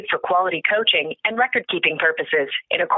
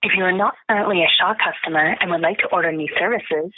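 phone menu voice. Real, not acted. Shaw phone menu played.

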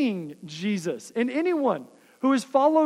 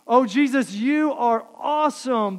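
gushing prayer; 2 semitones higher, 4 dB louder than usual. Acted. Voicing a gushing half-hearted believer.

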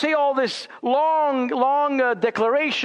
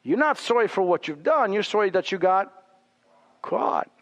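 scolding retort; faster than usual. Retold or imitated. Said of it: "You and I would say".

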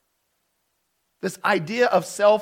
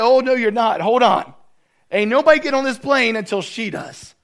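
firm; 4 semitones higher, 7 dB louder than usual. Retold or imitated. Worker stops boarding for lady.

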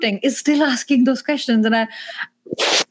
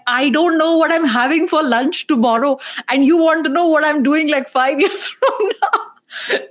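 Indian accent; 6 semitones higher than usual. Shown as a demonstration. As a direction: let the Indian accent come out, laughing at the end. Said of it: "when I get angry, my Indian accent comes out".

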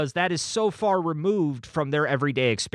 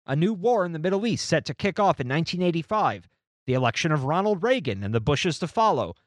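read-aloud narration. A narrator's reading. Reads book passage aloud.

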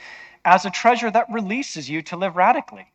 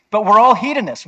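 louder, higher "we're ALL hedonists" with a falling close; emphatic restatement; 6 semitones higher, 8 dB louder than usual. Real, not acted. Sermon point restated with force.

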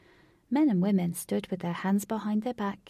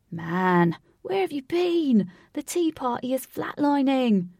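urgent; 5 semitones higher, 6 dB louder than usual. Acted. Lynx scolds late arrival.

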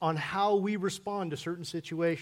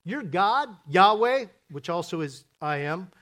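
lightly voiced complainer whispering to Joshua; grumbling gossip. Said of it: "it sounds like this".

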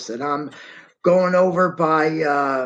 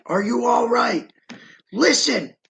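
calling out; 4 semitones higher than usual. Retold or imitated. Calling out to a trapped man.

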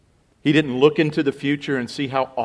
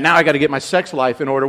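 mock grumble; faster than usual. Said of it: "You don't have to go".

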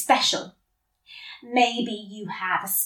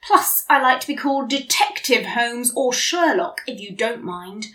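grumpily; 2 semitones higher than usual. Acted. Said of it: "I replied grumpily".

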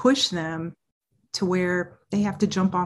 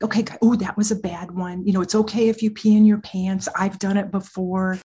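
gushing, fussy sympathy with a loud squeal; mock a coddling sergeant who fusses over every fear; hammed-up coddling voice, climbing into a squeal; over-soothing validator; 6 dB louder than usual. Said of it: "you'd be talking like this".

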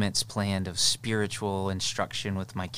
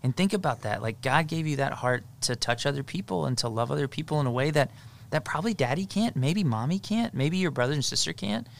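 reassuring dad; 2 semitones higher than usual. Retold or imitated. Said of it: "I say all the time is I say".

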